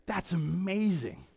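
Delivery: empty, passing praise; offhand. Shown as a demonstration. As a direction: say "That's amazing" as if shrugging it off. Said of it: "It's not just saying".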